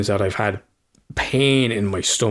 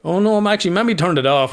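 imitating his son; 7 semitones higher than usual. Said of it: "And he's like".

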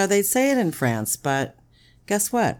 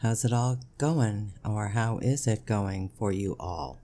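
mock host greeting; 4 semitones lower than usual. Shown as a demonstration. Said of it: "How's that? Better?".

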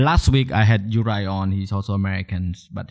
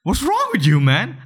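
high, disbelieving reaction; incredulous; 12 semitones higher than usual. Retold or imitated. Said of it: "I was like".

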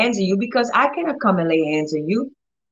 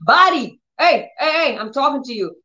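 hey hey, wake up the body; commanding call to body; 5 semitones higher than usual. Shown as a demonstration. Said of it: "So I will go like".

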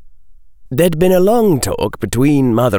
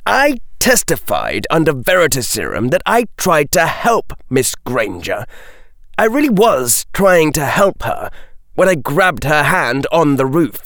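raised, high-pitched protest; rising voice; 8 semitones higher than usual. A narrator's reading. Accused figure defending himself to Daphne, voice rising. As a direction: protest your innocence with the voice pitched up. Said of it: "The figure's voice rose".

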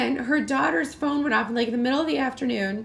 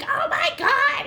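high, slow mock shock; shocked gasp; 14 semitones higher, slower than usual. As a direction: react in disbelief, drawn out. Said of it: "she's like".

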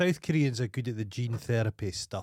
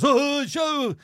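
loud, high call across the hill; imitated owner yelling his dogs back; 6 dB louder than usual. Bald dog owner calls his Alsatians away, loud high call.

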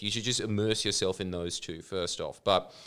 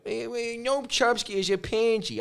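higher, hammed-up New York Italian accent; 10 semitones higher, 4 dB louder than usual. Imitating Michael Parenti, hammed-up New York Italian accent. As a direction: play it like a tough-guy New York Italian. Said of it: "with his New York Italian accent going".

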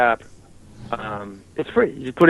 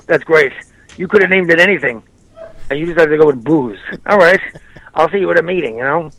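Colin Quinn impression. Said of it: "if I do Colin Quinn".

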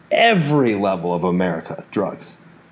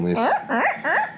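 tape rewind; 3 dB quieter than usual. Pretend. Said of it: "Give me the rewind noise again".

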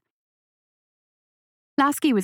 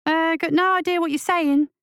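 put-on higher young boy, impatient; irritated boy; 8 semitones higher than usual. A narrator's reading. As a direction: brush it off like a cocky kid. Lasky voiced as boy.

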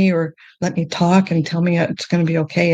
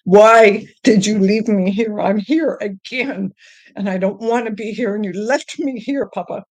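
retold yelling; 3 semitones higher than usual. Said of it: "and I'd yell at him".

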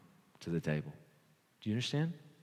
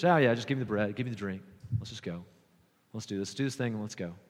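flippant; 2 semitones lower, faster than usual. Acted. Careless churchgoer rushing through communion, flippant. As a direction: toss it off as if it hardly matters. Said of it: "When we come flippantly, just not even taking it serious".

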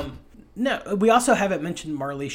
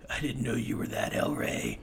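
Michael Biehn; 4 semitones lower, 5 dB quieter than usual. Retold or imitated. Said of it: "Michael Bihn's like".

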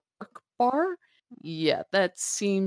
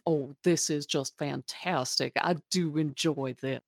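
amused posh lady; 3 semitones lower, 4 dB quieter than usual. Acted. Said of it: "horribly amused with this and is like".

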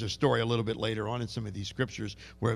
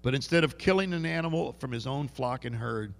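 Jewish brogue. Retold or imitated. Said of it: "Can you hear the, the Jewish brogue there?".

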